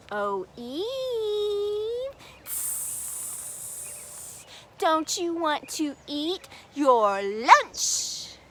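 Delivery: slow, coaxing serpent; sly serpent. Acted. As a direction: tempt her slowly and sweetly. Serpent tempts Eve.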